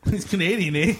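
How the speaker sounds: put-on Canadian accent. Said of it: "the funny accents".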